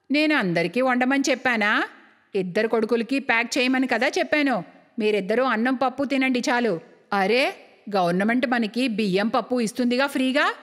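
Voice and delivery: lightly voiced bossy elder, slightly low; stingy mother-in-law. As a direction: set the daughters-in-law straight. (కోడళ్ళని మందలించే అత్తగారి స్వరం)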